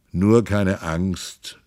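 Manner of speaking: slow, calming reassurance; comforting. Acted. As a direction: soothe your frightened wife, slowly. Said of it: "tröstete er".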